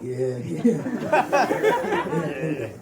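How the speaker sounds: low, laughing voice of a talking couch. Retold or imitated. Comedian voicing his couch, low and amused. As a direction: play the couch, dropping low and half laughing. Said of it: "the couch looked at me, was like".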